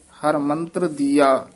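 brief halt after ਦੀਆ; ਦੀਆ followed by a short break; slight pause after. Shown as a demonstration. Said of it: "ਇੱਥੇ ਠਮਕ ਲਾ ਦੇਣੀ ਹੈ".

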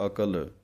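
ਅਕਲ with a full k and l; careful pronunciation. Shown as a demonstration. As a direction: sound ਅਕਲ with a full kakka. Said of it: "ਇਸ ਪਾਠ ਨੂੰ ਇਵੇਂ ਪੜ੍ਹਨਾ ਹੈ".

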